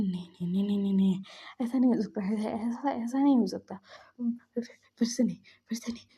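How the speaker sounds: rapid, repeated pleas of denial; acted-out panic, tumbling into quick repeats; mild mock panic, stammered refusals; panicking. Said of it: "panic कर रहा था".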